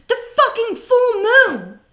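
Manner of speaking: a high, loud, drawn-out outburst; slow, shouted disbelief at the card; furious shout. Real, not acted. Tarot reader shouting at the card she drew.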